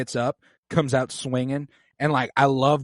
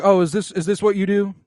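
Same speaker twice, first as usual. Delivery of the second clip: raised, louder, heated accusation; indignant challenge; 3 semitones higher, 5 dB louder than usual. Retold or imitated. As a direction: confront the bully head-on. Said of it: "and he's like".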